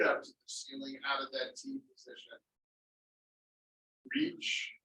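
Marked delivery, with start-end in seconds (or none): 4.1-4.7 high stretched cue. Acted.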